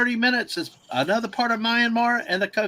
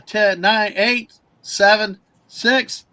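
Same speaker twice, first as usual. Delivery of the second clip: building countdown ending in a loud cheer; new year countdown crowd; 3 semitones higher, 7 dB louder, much slower than usual. Real, not acted. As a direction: count down louder and higher, then shout it.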